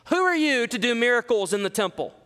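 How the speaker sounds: accusing the apostles of overreach; hostile interrogation. Shown as a demonstration. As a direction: demand it like an accusing council. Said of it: "This is not a peaceful inquisition".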